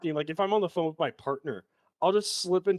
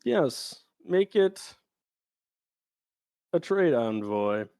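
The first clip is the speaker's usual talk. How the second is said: imitating George Lucas; 4 dB louder than usual. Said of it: "POV George Lucas's mind".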